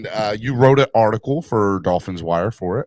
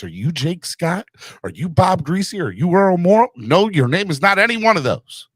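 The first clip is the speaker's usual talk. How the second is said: mock interrogation of a child, pitched up; tongue-in-cheek parental cross-examination; parent lecturing kids; 3 semitones higher than usual. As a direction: quiz them like a parent making an absurd point. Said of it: "I say that to my kids all the time".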